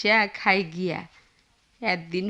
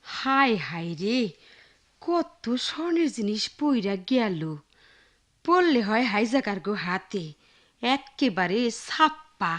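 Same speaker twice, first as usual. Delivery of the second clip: muttering to herself; 6 dB quieter than usual. Acted. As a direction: mutter to yourself, slightly under your breath. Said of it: "একলা একলা কি বিড়বিড় করতাছস". (আপন মনে বিড়বিড়)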